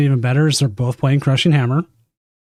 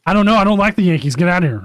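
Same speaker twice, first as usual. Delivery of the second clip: grumpy boss; 4 semitones higher, faster than usual. Acted. Acting gruff boss replying.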